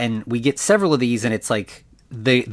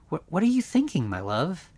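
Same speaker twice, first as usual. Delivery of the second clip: high, sugary question to her lover; sweet lover; 6 semitones higher, 3 dB quieter than usual. Retold or imitated. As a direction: coo it up high, lightly imitating her. Victoria sweetly asks her lover.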